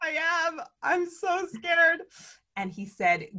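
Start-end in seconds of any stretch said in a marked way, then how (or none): 0.0-2.0 high-pitched, drawn-out admission of nerves; scared confession. Retold or imitated. Nervous first-time trip leader confessing to mentor, scared and high. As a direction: own up to fear, stretching it out high.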